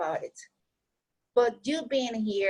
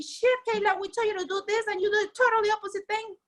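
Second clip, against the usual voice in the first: higher, fast, exasperated scolding; mock scolding friends; 9 semitones higher, faster than usual. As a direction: rattle it off like fed-up friends telling her off. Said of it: "they never asked me".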